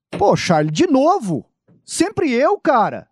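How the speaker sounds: high, whining protest; whiny complaint. Acted. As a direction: moan like an overworked reporter. Acted complaining reporter skit.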